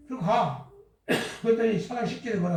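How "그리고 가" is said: usual speaking voice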